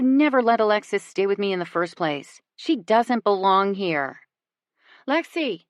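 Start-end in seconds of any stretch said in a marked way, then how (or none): 5.1-5.6 calling a name into dark woods. A narrator's reading. Sister calls out searching the woods for Lexi. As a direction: call out high across the dark. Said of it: "Alexis calls out from somewhere in the dark".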